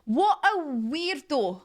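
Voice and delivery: What a weirdo drawn out slowly in a put-on voice; slow put-on dismissive voice; slow mock voice. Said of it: "That's the way I look at it".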